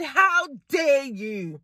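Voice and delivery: scolding the cashier, building then dropping off; mock indignant confrontation; retold telling-off. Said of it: "I said".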